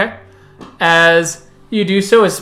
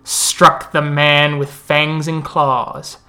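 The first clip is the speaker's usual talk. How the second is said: epic fantasy narrator. Acted. NPC tells a legend at the moot.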